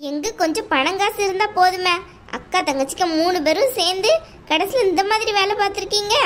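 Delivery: a domineering aunt, coldly dismissive; mother-in-law telling the bride to leave the house, scornful. Acted. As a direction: lay down the law to the unwanted daughter-in-law. Aunt's voice again.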